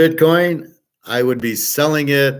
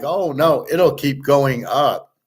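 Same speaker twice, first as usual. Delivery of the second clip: pitched-up mock of a true believer; 3 semitones higher, slower than usual. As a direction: play the naive optimist for a laugh. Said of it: "people are like".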